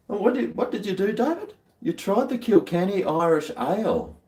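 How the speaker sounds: squeaky, fast, eager question; high excited question. Acted. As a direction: quiz him with high excitement. Mock-quizzing viewer David.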